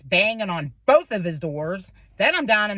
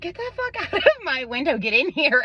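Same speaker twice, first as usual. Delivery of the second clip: laughing exasperation; 7 semitones higher than usual. Retold or imitated. Boyfriend voiced, laughing.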